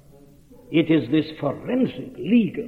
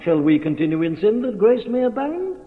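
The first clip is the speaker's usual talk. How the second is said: raised, climbing question in an objector's mouth; objectors' challenge; 5 semitones higher than usual. Retold or imitated. Preacher quotes the critics' question about sin and grace, rising challenge. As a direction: lightly act the challenge, rising to the end. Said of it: "This is what they said about him".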